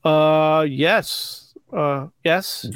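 hesitant, half-hearted agreement; reluctant, hesitant yes; unenthusiastic. Real, not acted. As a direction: agree dutifully without meaning it. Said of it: "Very enthusiastic".

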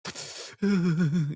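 shuddering crying breaths; mock sobbing breath. Kid trying to hide tears from friends at school, mock sobbing. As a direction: suck in air like a sobbing kid. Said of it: "crying your fucking eyes out".

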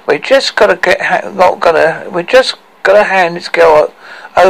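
lightly voiced dwarf haggling in protest; objecting dwarf Tricky.

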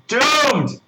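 high, hammed-up cry of Doomed. Reviewer hamming up the film's fate, mock dramatic cry. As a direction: proclaim it like a movie-trailer doom.

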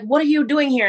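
mock-astonished question; surprised uncle. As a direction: imitate an uncle startled to see you. Uncle surprised to find her.

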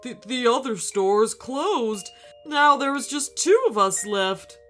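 tearful. A narrator's reading. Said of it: "wiped a tear from his eye".

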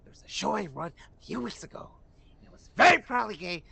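imitating the director's proud, dramatic read; hammed-up loud whisper into a shout; mock impression. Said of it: "it sounded like that, bro".

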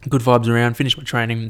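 swallowing between words; gulping while talking; swallowing mid sentence. Real, not acted. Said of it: "Sorry if you can hear me swallowing".

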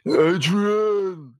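high, drawn-out boxer's call; Rocky. Acted. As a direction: call out the name like the movie boxer. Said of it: "I'll put my Rocky up".

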